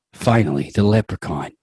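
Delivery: lightly voiced villain; a hint of a gloating baddie; Roger Clemens. Roger Clemens arrives to the players, mild gloat. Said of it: "I don't think I sound like this".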